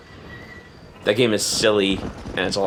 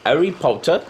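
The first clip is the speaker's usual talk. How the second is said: British "Harry Potter", round "Po" and no final R; British accent; 2 semitones higher than usual. Shown as a demonstration. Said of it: "Try saying, uh, Harry Potter".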